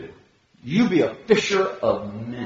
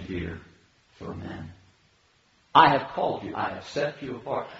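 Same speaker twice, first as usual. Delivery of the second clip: gentle Jesus voice. Retold or imitated. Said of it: "You know what he's saying?".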